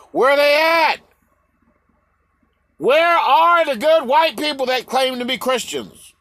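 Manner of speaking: real indignant shout; indignant calling out. Real, not acted. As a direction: call out the absent, loud and high. Ranting demand to absent white ministers.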